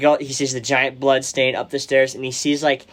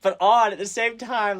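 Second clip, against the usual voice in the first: much higher, slower, comic panicked squeak; hammed-up panic; 10 semitones higher than usual. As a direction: squeak it out in mock panic, like a scared viewer in the dark. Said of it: "You're just like".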